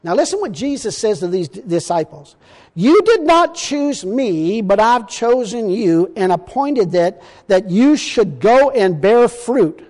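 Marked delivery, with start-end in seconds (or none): 2.7-9.8 slow, deliberate scripture reading; solemn preacher reading scripture. Acted. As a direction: read the verse with weight, slowing at the end. Preacher reading Jesus' words slowly.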